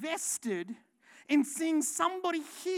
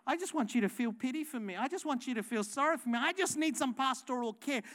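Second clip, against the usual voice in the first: imitating a needy congregant; faster than usual. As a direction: mimic someone fishing for sympathy. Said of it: "sometimes people will go".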